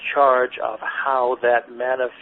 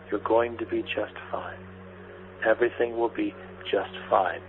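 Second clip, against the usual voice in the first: soft, tender reassurance, mostly quieter; gentle reassuring inner voice; 3 dB quieter than usual. Retold or imitated. Inner voice comforting the overwhelmed woman, soft and tender. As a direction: soothe her like a kind inner voice. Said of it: "what sounded like her own voice".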